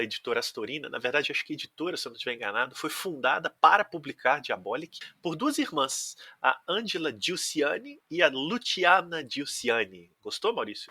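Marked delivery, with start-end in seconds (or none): 6.4-10.1 put-on names said slowly in an Italian accent. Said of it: "Meu sotaque italiano".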